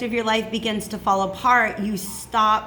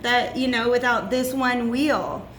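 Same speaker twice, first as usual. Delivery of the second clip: mock sad lament; 4 semitones higher than usual. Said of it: "She's so sad".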